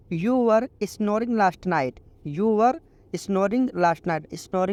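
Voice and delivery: very slow, each English word laid out clearly; slow teaching read. Shown as a demonstration. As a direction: model the sentence slowly for learners. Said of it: "इसको English में आप बोलो".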